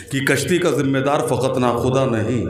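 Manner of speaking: measured Urdu verse recitation; शेर-पाठ. Acted. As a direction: recite the couplet phrase by phrase with pauses. शेर पढ़ता है. (ठहर-ठहर कर शेर पढ़ना)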